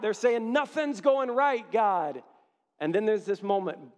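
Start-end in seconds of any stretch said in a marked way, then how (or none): 0.5-2.2 crying out to God. Retold or imitated. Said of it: "They're crying out".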